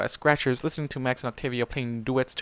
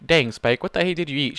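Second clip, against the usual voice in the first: laughing; 2 semitones higher, 4 dB louder than usual. Acted. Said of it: "she asked with a laugh".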